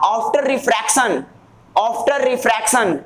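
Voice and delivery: drawn-out, deliberate phrasing; slow dictation. Shown as a demonstration. Teacher dictating a physics definition to students, slow dictation.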